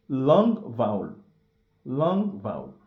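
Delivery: "long vowel" held out; teacher modelling length. Shown as a demonstration. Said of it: "voyelle longue".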